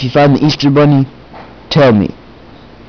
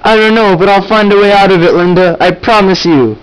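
heroic promise; 6 semitones higher than usual. Acted. Brother Jeff promises sister Linda to fix it, high heroic vow. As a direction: promise it like a cartoon hero.

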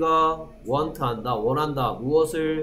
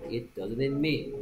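slow demo; 8 dB quieter, much slower than usual. Shown as a demonstration. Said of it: "slow model sentence for learners".

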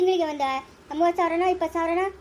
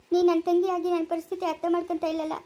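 tearful plea. Acted. Elder sister pleading with sister.

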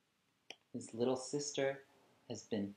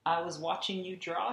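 put-on higher, gentle little-girl voice; little sister; 7 semitones higher than usual. Little sister telling her brother, higher and innocent. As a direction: say it sweetly as a small girl. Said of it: "she said".

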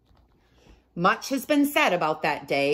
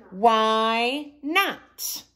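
Wilbur asking; 6 semitones higher than usual. A narrator's reading. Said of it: "And then he asked".

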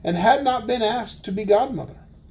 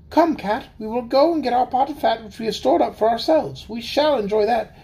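mouse voice; 4 semitones higher than usual. Acted. Mouse voice, high.

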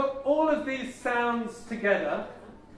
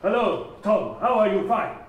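said all in one; 2 semitones lower than usual. Retold or imitated. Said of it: "they say it all in one".

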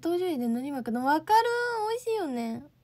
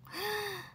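gasp; 9 semitones higher, 6 dB quieter than usual. Real, not acted. Reading ranking, surprised.

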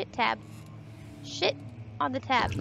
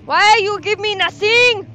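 mock whine; 7 semitones higher, 12 dB louder than usual. Complaining to the game.

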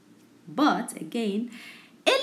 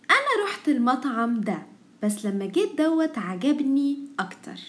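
fast Egyptian reading; much faster than usual. Shown as a demonstration. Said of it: "let's start reading our first sentence together".

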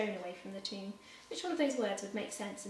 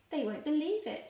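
higher and louder, bubbling joy; joyful laughing exclaim; 7 semitones higher, 4 dB louder than usual. Acted. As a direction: say it with delighted glee. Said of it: "she laughed".

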